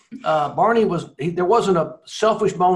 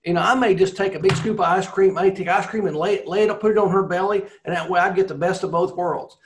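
retelling the driver's joke; 5 semitones higher, 4 dB louder than usual. Retold or imitated. Driver's joke retold, raised voice.

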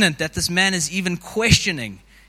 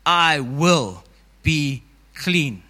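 very slow, gentle and deliberate; calm Jesus; 3 dB louder, much slower than usual. Retold or imitated. Jesus to the kneeling leper, slow and gentle. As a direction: lay each word down slowly, like a blessing.

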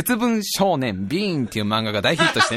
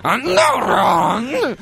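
mock sobbing; 6 semitones higher, slower than usual. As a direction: wail it out like you're moved to tears. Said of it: "とか思うわけじゃん". (感動して泣きながら叫ぶように)

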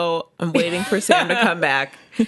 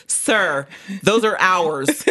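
mock deep voice; much slower than usual. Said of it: "I gotta get some bass in my voice".

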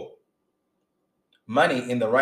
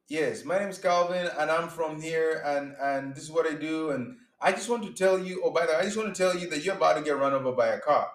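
mock chatty rambling; 3 semitones higher than usual. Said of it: "You don't go".

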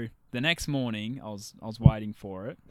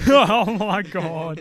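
laughing; 6 semitones higher, 10 dB louder, much slower than usual. Real, not acted. Laughing at doll story.

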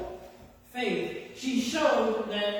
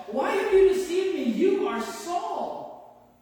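high, raised cry of accusation; 8 semitones higher, 4 dB louder, slower than usual. A narrator's reading. Preacher voices the woman who sees Samuel, crying out. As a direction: cry it out, pitched well up. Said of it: "cried out at the top of her voice".

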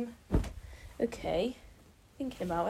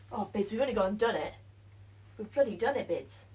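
excited; faster than usual. Real, not acted. Triumphant over finished build.

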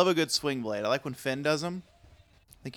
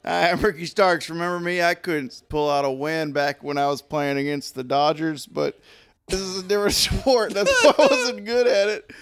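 hyped car ad pitch; 2 semitones higher, 3 dB louder than usual. Pretend.

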